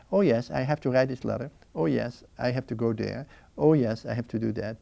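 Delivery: gently note each nagging task and let it be; very gentle. Acted. Man calming his own distractions in prayer, very gently. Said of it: "gradually and very gently actually to say".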